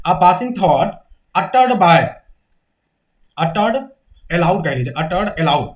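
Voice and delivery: slow, broken-up dictation. Shown as a demonstration. Teacher dictating the definition phrase by phrase. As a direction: pause between phrases for note-taking. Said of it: "तो aside का definition लिखिए".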